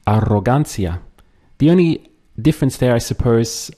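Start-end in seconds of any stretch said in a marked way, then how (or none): 0.1-1.0 Arrogancia said with Spanish vowels; Spanish model word. Shown as a demonstration. Teacher modelling Arrogancia for learners, in Spanish. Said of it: "Try to say arrogance in Spanish".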